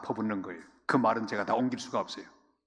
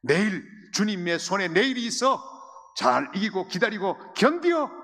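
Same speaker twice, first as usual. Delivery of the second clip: comforting words; 6 semitones higher, 4 dB louder than usual. Shown as a demonstration. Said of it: "손을 잡고 말하시기를 바랍니다".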